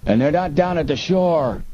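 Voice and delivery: high-pitched yelled report. A narrator's reading. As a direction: call it across the yard, high. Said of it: "the other yelled".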